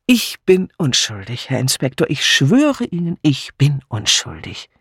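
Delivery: mock-solemn plea of innocence; joking protest. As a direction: swear innocence with hammed-up emphasis. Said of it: "lassen Sie die Witze".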